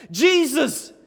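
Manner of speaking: high, loud cry for help; calling out. Acted. Blind man calling to Jesus as he passes, loud plea. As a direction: call out over a crowd. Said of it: "he calls out".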